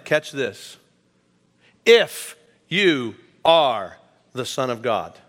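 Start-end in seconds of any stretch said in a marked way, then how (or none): 1.8-5.2 a hint of Satan testing him, drawn out; devil's taunt. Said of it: "The devil said to him".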